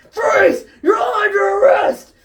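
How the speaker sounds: high, loud shouted order; firm command. Acted. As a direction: bark it like a cop. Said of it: "F B I agent firmly".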